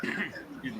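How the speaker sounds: talking through a mouthful of food; mouth full. Real, not acted. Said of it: "With my mouth full".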